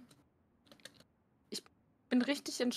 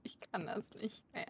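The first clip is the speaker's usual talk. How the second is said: whispered, soft and defeated; real whispered despair; 2 semitones lower, 12 dB quieter than usual. Real, not acted. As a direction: breathe it out in defeat. Defeated after falling again.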